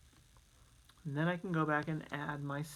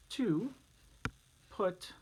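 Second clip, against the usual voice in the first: whisper; 2 semitones higher than usual. Shown as a demonstration. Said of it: "teacher whispers for effect".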